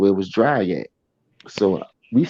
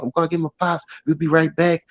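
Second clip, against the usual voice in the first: white guy impression; 3 semitones higher than usual. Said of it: "you know how the white people talk".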